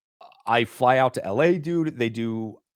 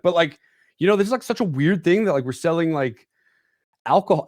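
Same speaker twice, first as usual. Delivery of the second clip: earnest rambling self; 7 semitones higher, 3 dB louder than usual. Retold or imitated. Retold rambling sales pitch.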